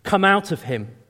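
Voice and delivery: Jesus ordering the spirit out, stern; stern command. Acted. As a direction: cast it out with authority. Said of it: "said Jesus sternly".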